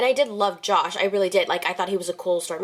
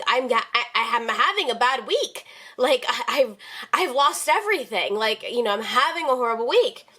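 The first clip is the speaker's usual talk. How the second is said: higher-pitched, plaintive retold excuse; exasperated apology; 4 semitones higher than usual. Employee excusing lost keys to the boss, exasperated and pleading. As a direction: plead your case, voice lifted in mild distress.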